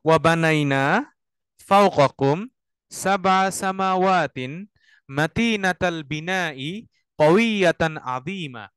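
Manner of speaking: very slow phrase-by-phrase chanted Arabic; recite to repeat. Shown as a demonstration. Teacher leads students to repeat after him. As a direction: chant each phrase slowly for students to echo.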